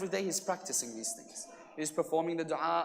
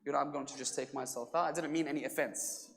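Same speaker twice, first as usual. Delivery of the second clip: softer, lower, retold apology; subdued voice of someone excusing himself; meek apology; 5 semitones lower, 6 dB quieter than usual. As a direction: back down quietly and politely. Stranger apologizes after being scolded.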